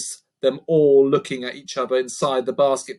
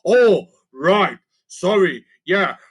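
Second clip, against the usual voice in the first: higher goblin, slow fake agreement; playing along; 5 semitones higher, 5 dB louder, slower than usual. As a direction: cover the slip quickly. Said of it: "trying to play along".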